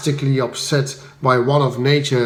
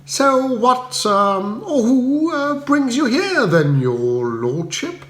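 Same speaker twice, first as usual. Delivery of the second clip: high, bright upper-class chirp; cheery Bertie; 8 semitones higher, slower than usual. Acted. Bertie greeting Spode at the door, high and breezy. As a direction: greet him breezily, unbothered.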